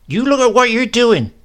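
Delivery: put-on high, loud scolding old woman; sharp grandmother. A narrator's reading. Grandmother scolds grandfather, high and loud. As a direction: snap at him to mind himself.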